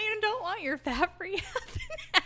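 high, snooty disgusted tone; mock disgusted voice. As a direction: sneer it like a picky kid. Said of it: "And I'm just like".

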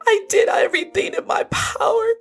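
sobbing apology to mother. Acted. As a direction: cry through the guilt. Guilt-stricken grief to mother.

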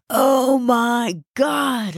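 high, slow cry of horror; horrified croak. A narrator's reading. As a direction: drag it out in rising dread. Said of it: "I croaked".

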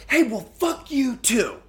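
high, snide fuck-you retort; mock snarky comeback. Imitating a snide comeback to a yelling relative. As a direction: fire back a sneering insult. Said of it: "turn around and say".

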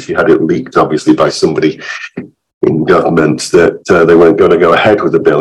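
hoarse, croaky from illness; rough, croaky voice getting over illness. Real, not acted. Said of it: "my croaky voice".

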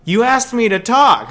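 high, loud, slow protest; indignant kid. Retold or imitated. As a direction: protest like a baffled, wronged kid. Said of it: "And I was like".

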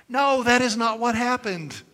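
emphatic. Real, not acted. Emphatic denial of joke.

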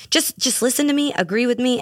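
high, smug insistence; a teasing, self-important plea; mock know-it-all. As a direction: play the smug one who's always right. Mock bossy self-quote to audience.

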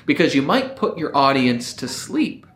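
smooth, sultry, relaxing voice; lightly voiced radio DJ lulling listeners, falling ends; late night FM DJ. Shown as a demonstration. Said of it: "this voice that you might like is it's very smooth".

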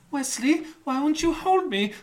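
high swooning damsel plea; mock Buttercup. Friend reenacting Buttercup begging Wesley, in a high hammed-up whine. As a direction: ham up a lovesick princess whining. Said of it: "Buttercup runs in".

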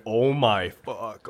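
slow, stretched-out mock gasp; mock awestruck oh my fuck; imitating a stunned guy. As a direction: drag it out like he can't believe his eyes. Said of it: "He's like".

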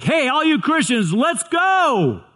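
imagined rallying call. Retold or imitated. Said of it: "It might be something like".

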